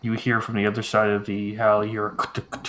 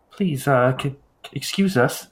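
soft gentle voice; 4 semitones higher than usual. Acted. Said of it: "a soft, gentle voice".

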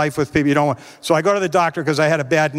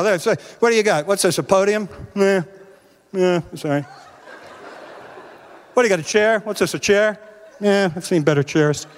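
yard sale shoppers. Retold or imitated. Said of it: "They all look at your stuff and go".

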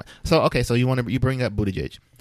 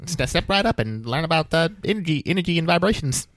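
carnival barker; 5 semitones higher than usual. Pretend. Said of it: "like the old newsreels".

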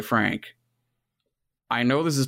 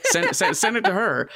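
laughing; 8 semitones higher than usual. Real, not acted. Laughing excited push to send.

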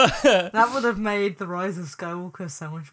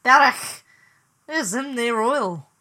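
loud Scouse opening that falters; attempted Scouse accent; 2 semitones higher, 4 dB louder than usual. Shown as a demonstration. Podcaster trying an oilman on request, failed Scouse accent. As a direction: have a shaky go at Scouse. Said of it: "I can do a bit of Scouse".

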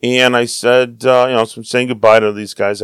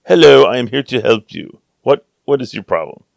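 put-on English accent for the helpline. Insurance helpline answering a caller, light English accent. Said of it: "somebody with an English accent".

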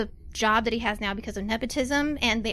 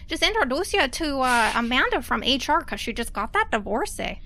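put-on Canadian mail boy; 2 semitones higher than usual. GM voicing Cliff.

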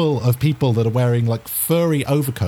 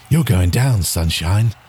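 taunting racer; 7 semitones lower, 3 dB louder than usual. Acted. Boy racer taunts player.

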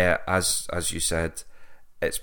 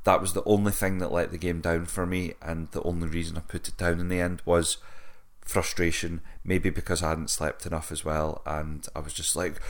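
ordinary delivery

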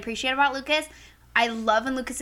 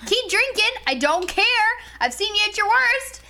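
exasperated rant; 5 semitones higher than usual. Retold or imitated. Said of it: "I'm like".

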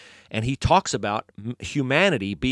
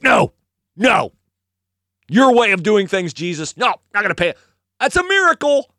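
loud, raised-pitch mock protest; indignant refusal; 7 semitones higher, 5 dB louder than usual. Religious leaders reject Jesus's way of doing things, indignant. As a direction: act out a stubborn, outraged rejection. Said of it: "And the Jews are like".

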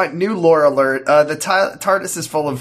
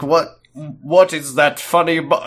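lightly put-on British actor voice; slow mock British theatrical delivery; a hint of an eccentric English actor; Tom Baker; slower than usual. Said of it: "why is he Tom Baker?".

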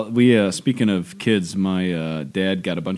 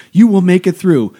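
put-on earnest child preacher; 10 semitones higher, 10 dB louder than usual. Daughter reading a second grader's letter to her deacon dad, high and solemn. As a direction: deliver it like a grave little prophet. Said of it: "he's just like".

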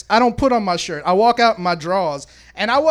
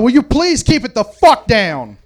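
a louder retold yell at the party; mild yell; 4 semitones higher, 5 dB louder than usual. Neighbor yelling at the party again, mildly loud. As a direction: call out over the music. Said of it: "So I yelled out".

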